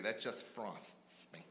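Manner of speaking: lightly mimicked annoyed wife; mock angry wife. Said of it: "That's her word when she's angry".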